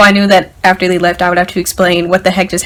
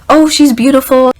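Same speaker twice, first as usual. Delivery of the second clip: higher-pitched cooing imitation of a mom; lightly voiced gushing mother; admiring mom; 4 semitones higher than usual. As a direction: coo over a dog as mom would. Voicing mom admiring the dog.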